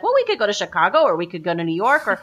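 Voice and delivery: a dreamy, scattered pitch of options; high, fast mock enthusiasm for every destination; rambling ideas. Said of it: "it'd be like".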